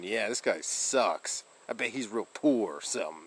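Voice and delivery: trolling mock voice. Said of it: "I troll".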